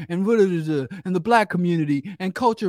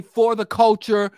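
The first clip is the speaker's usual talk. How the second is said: slow, louder quoted slogan; mocking slogan; 3 semitones higher, 5 dB louder than usual. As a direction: parody the catchphrase. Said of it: "when they say".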